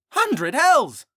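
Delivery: high startled outburst; shocked shout. Acted. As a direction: blurt it out in shock. Riley shocked exclamation.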